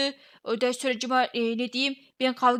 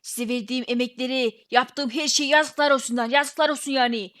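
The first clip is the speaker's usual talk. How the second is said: angry rant; 4 dB louder than usual. Acted. Ranting at the bosses after quitting.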